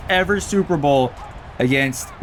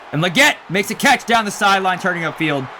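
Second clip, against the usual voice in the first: higher-pitched burst of game commentary; excited play-by-play; 6 semitones higher than usual. Real, not acted. Gamer calling his receiver's catch, excited. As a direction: call the catch like a live announcer. Live call of a big catch.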